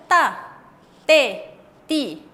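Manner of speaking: "ta, te, ti" punched as if each carried an accent mark; separate, stressed syllables "ta, te, ti" with a hard t; como con tilde. Shown as a demonstration. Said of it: "Como si fuese que tiene una tilde". ("ta, te, ti" marcadas, como si llevaran tilde)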